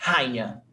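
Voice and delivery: "rainha" with a-i split, stress on "i": ra-I-nha; three syllables, the i stressed; correct rainha. Shown as a demonstration. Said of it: "We don't say rainha".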